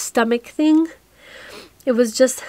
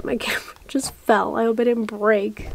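sudden breathy whisper as the camera drops; startled whisper; 4 dB quieter than usual. Real, not acted. Vlogger whispers as her camera tips over, a startled whisper. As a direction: hush it out after the camera falls. Camera falls mid-vlog.

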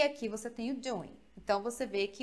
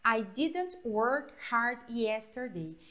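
slow model sentence; much slower than usual. Shown as a demonstration. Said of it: "você não utiliza o outro".

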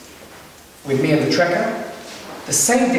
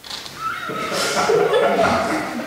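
imitated lion. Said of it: "And she goes like this".

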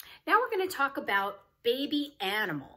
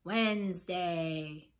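slow demonstration; slower than usual. Shown as a demonstration. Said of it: "and we say".

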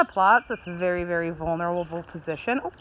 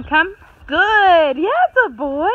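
louder, higher praise after the recall; 8 semitones higher, 10 dB louder, slower than usual. Real, not acted. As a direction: reward the dog with a big loud voice. Recall command and loud praise.

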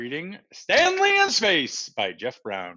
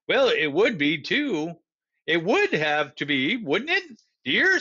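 lightly voiced wife; 3 semitones higher than usual. Missus Ott asks her husband.

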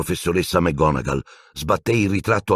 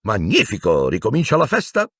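cheerful; 5 semitones higher than usual. Acted. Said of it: "esclamò allegramente".

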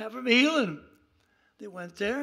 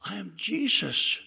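low, measured divine answer; Jesus; 7 semitones lower than usual. Retold or imitated. Heavenly voice answering fallen Saul, low declaration. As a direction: declare who you are in a low voice, with pauses. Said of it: "He hears a voice".

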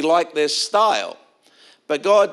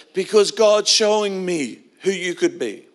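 higher-pitched, mildly emotional retelling of a crying man; imitated tearful pastor; 4 semitones higher than usual. Crying youth pastor tells a teenager what God showed him, mildly tearful imitation. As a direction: lightly imitate a tearful, earnest declaration. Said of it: "he was crying".

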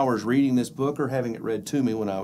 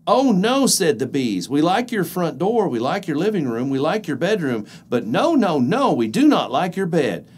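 alarmed bees voice; 2 semitones higher, 4 dB louder than usual. Acted. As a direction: protest in a bees' panic. Bees refuse.

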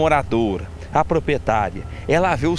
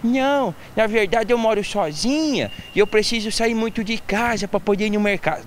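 Dona Maria/character. Retold or imitated. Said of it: "E ela falou assim".

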